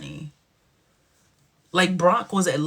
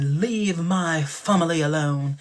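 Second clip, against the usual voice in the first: mock Darth Vader voice; slower than usual. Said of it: "Darth Vader enter the room".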